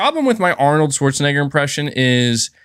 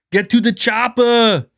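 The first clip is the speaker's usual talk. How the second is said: Arnold scream; 9 semitones higher, slower than usual. Pretend. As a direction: yell it like Arnold with a heavy Austrian accent. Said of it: "screaming like Arnold".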